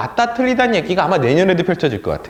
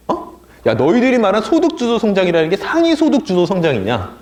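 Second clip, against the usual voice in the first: mock jeering critic, pitched up; imitated sneering; 4 semitones higher than usual. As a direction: needle them with incredulous rhetorical questions, imitating critics. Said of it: "라고 이제 막 비아냥대면서". (비아냥대는 보수 언론 흉내)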